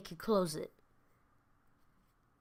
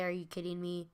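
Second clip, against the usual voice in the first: quiet version; 2 semitones lower, 5 dB quieter than usual. Retold or imitated. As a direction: say it under your breath. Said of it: "I didn't say".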